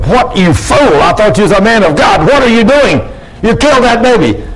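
high-pitched, mock-horrified outburst; retold outraged scream. Preacher voicing an onlooker at the kicked baby, mock scream. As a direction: imitate a shocked onlooker crying out, without full volume. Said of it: "somebody screamed out".

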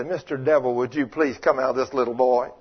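soft, timid pleading; mock a meek, too-polite request. Mocking a timid believer asking the devil nicely, soft and meek. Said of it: "tap him on the shoulder and say".

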